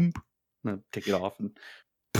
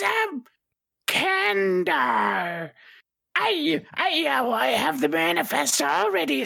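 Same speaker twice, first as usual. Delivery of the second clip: suave cadet. Acted. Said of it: "You suddenly feel a lot more suave".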